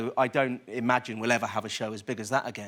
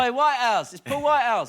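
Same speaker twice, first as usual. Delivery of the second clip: character voice; 11 semitones higher, 8 dB louder than usual. Retold or imitated. Shouting at Whitehouse in character.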